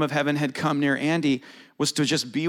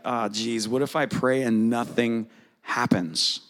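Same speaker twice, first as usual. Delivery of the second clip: mock worried; 4 semitones lower, slower than usual. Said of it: "Does anybody ever worry about that?".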